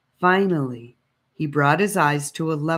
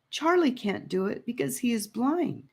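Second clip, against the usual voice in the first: put-on high, pleading girl's voice; 8 semitones higher, 4 dB quieter than usual. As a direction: beg him gently, a young girl. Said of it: "Annika pleaded".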